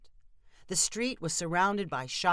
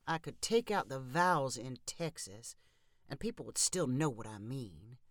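mumbling under his breath, softer; quietly grumbling to himself; mumbled; 5 semitones lower, 6 dB quieter than usual. A narrator's reading. Travis grumbles to himself at the counter, softly mumbled. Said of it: "Travis mumbled".

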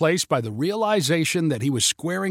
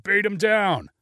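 crowd call; 6 semitones higher, slower than usual. Acted. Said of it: "called for Patrick to".

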